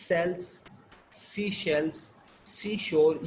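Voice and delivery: "sells", "sea shells", "seashore" one at a time, with gaps; word-by-word S/SH demo. Shown as a demonstration. Teacher breaking down the tongue twister, word-by-word demonstration. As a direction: isolate each piece, crisp S in "sells", SH in "shells". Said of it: "ایس اور ایس ایچ کی sound".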